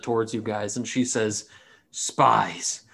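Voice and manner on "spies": whispered. Acted. Captain accuses party.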